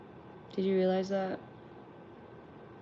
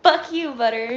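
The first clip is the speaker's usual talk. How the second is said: higher, louder mock yell at the dog; 6 semitones higher, 10 dB louder than usual. The speaker yelling back at the dog Butter, in mock outrage. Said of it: "I'm like".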